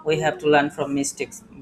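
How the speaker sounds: very slow, each word set apart; slow dictation. Shown as a demonstration. Teacher repeating the English maxim slowly for the class. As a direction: let every word land slowly.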